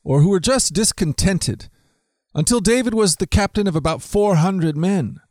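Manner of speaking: steady, measured Bible reading; scripture reading. Acted. Reading scripture to listeners, steady and measured. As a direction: read the passage out like a storyteller. Reads Bible passage aloud.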